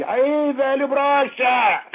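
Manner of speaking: loud, high, drawn-out heckle; heckler's shout. Retold or imitated. A heckler insulting the old candidate mid-speech, loud slow shout. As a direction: yell the insult from the crowd. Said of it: "grita assim".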